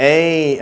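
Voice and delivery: ஏய் as a long gliding "ay"; English pronunciation. Shown as a demonstration. Teacher shows how English speakers say the letter, demonstrated pronunciation. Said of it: "ஆங்கிலேயர்கள் எப்படி உச்சரிக்கிறாங்க".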